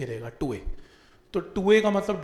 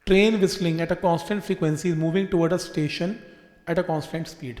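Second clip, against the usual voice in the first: very slow question reading; 4 dB louder, much slower than usual. Shown as a demonstration. Teacher reading a train question to students, very slow. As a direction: drag each word of the question out slowly.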